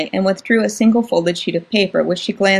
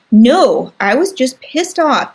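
louder, insistent denial; raised voice; 5 semitones higher, 4 dB louder, slower than usual. Acted. Sister rejecting being called the witch, raised voice. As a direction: push back, voice rising. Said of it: "raising her voice now".

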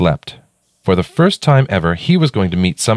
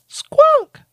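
calling out. A narrator's reading. Mother calling from the sky.

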